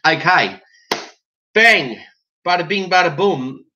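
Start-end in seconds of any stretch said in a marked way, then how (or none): 1.5-3.6 emphatic bang. Acted. Opening bang.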